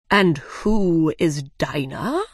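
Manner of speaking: the Dodo asking Alice, slow and curious; puzzled Dodo. Acted. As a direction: drawl the question out like a curious old bird. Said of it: "the Dodo asked".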